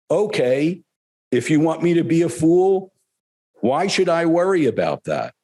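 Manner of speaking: lightly voiced guru reassuring a student; Gurudev. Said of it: "He goes".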